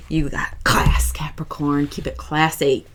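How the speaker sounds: slow intimate whisper; whispered compliment. Acted. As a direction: breathe it like a secret, slowly. Confiding compliment to Capricorn.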